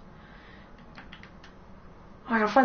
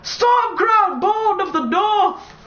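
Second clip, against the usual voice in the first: raised, ringing proclamation of power; mock heroic battle cry; 4 semitones higher than usual. Gamer playing warrior boasts of Talos's power, mock heroic. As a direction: declaim it like a boastful warrior, drawn out at the end.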